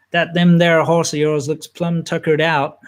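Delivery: lightly hammed-up American country accent; attempted American accent. Teasing C Milk to rip him off, in a put-on American accent. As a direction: have a rough go at an American accent. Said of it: "I think that's an American accent".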